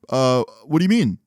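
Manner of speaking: hesitant mock innocence; playing stupid. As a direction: act clueless when caught out. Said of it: "Trying to, like, play stupid".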